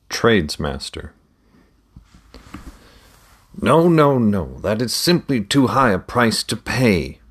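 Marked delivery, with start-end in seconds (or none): 3.6-7.2 father voice. A narrator's reading. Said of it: "Hendrik heard his father, Winkett, say".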